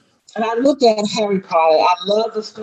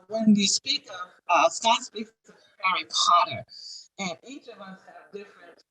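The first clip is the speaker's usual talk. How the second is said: distant, faint voice; speaking from across the room; far from mic; 5 dB quieter than usual. Real, not acted. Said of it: "It sounds like the microphone's across the room".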